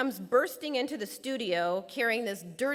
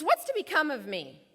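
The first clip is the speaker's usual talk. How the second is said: anguished pleading; 4 semitones higher than usual. Retold or imitated. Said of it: "He says".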